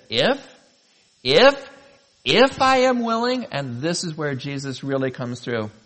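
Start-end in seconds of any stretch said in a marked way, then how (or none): 0.1-3.5 high, loud, rising disbelief; incredulous question. Acted. Jesus answering the leper, incredulous. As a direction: throw the doubt back, pitched way up. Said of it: "hear him say".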